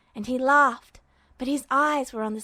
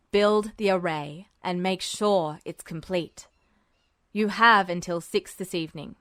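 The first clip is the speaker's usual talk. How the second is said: low, hushed officer's voice; Mustang voiced low; 6 semitones lower than usual. A narrator's reading. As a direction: keep it low and secretive. Mustang's voice in story.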